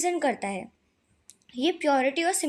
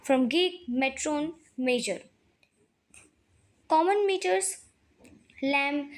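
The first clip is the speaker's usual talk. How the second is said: slow, deliberate reading of notes; slow dictation reading; much slower than usual. Acted. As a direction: read it out slowly so the class can copy. Reads English definitions slowly.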